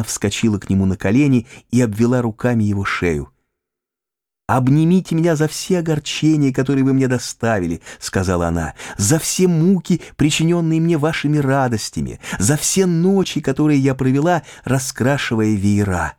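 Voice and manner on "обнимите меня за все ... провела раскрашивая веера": put-on young woman's voice, lifted and slowed on key words; Pauline, higher voice. A narrator's reading. Reading Pauline to her lover, a higher playful voice. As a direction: play Pauline, pitched up and tender.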